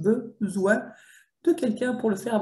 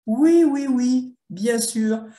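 mock agreement, higher and louder, then slow; drawn-out sarcastic "sure"; scoffing yes-yes at a false promise; 4 semitones higher, 4 dB louder, much slower than usual. Real, not acted. Mocking the publisher's promise.

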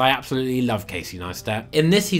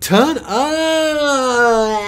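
high, loud, drawn-out party cry; mock party yell; 10 semitones higher, 5 dB louder than usual. Critic mimics the passengers' party cry, mock yell. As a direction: stretch it out like a hammed-up party shout. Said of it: "huge panning shot of everyone getting".

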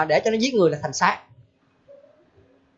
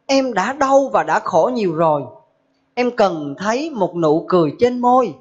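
poem recital; slower than usual. Acted. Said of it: "Thầy có làm cái đoạn thơ như thế này".

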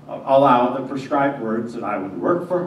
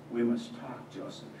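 soft, hushed plea; said softly; 4 semitones lower, 14 dB quieter than usual. Acted. Mary to Joseph at sunset, softly. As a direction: hold it low and gentle. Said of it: "she said softly".

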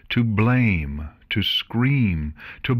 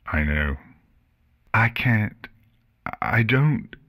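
unable to say it; 3 semitones higher than usual. A narrator's reading. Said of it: "She couldn't bring herself to say those words".

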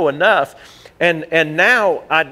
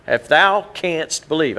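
mock King James; slower than usual. Shown as a demonstration. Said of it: "I'm just having fun with it".

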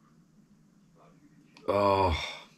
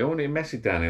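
mock moan; 6 semitones higher, faster than usual. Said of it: "She just moaned at me".

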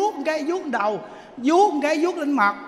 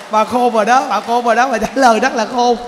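louder emphatic approval; loud praise; 8 dB louder than usual. Real, not acted. Monk loudly praising the clever woman. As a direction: say it big and approving.

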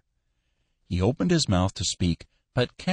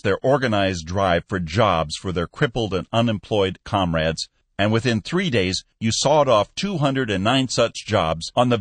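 lightly voiced stern manager, louder; stiff Skinner; 3 semitones higher, 4 dB louder than usual. Manager arguing with his boss, stiff and louder. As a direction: argue it stiffly.

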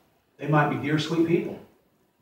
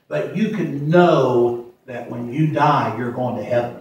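slow reassurance; 4 semitones lower, slower than usual. Real, not acted.

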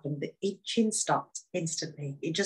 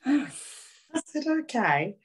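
amused okay; 8 semitones higher, much slower than usual. Retold or imitated. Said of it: "I could see the devastation in her face".

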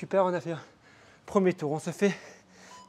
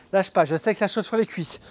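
urging; 3 dB louder than usual. Real, not acted. Coach urging mid exercise.

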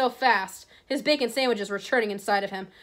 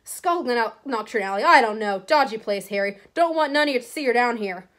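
Hagrid voice; 4 dB louder than usual. Acted. Hagrid speaks.

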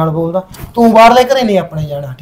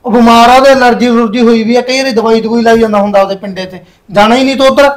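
raised, irritated voice at his wife; angry scolding; 3 semitones higher than usual. Acted. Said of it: "ਪਿਆਰ ਨਾਲ ਵੀ ਕਹਿ ਸਕਦੇ ਹੋ". (ਗੁੱਸੇ ਨਾਲ ਉੱਚੀ ਆਵਾਜ਼)

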